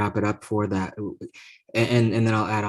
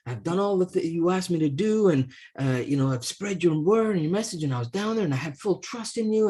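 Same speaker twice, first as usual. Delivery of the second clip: indignant complaint; 5 semitones higher than usual. Acted. Priest complains to God at gates.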